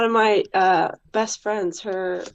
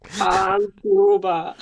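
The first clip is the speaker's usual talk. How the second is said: Hans Gruber; 4 dB louder, slower than usual. Retold or imitated. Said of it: "You sound like Hans Gruber".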